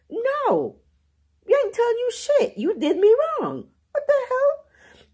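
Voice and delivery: high-pitched hammed-up outrage, crying out; loud mock meltdown with cries; mock outraged rant. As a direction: squeal it like an offended relative. Ranting at family in retelling.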